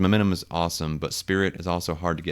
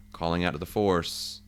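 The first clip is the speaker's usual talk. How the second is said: hushed whisper calling on the Force; whispered invocation; 5 dB quieter than usual. Real, not acted. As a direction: whisper it like a secret call to the Force. Invoking the Force in solo play.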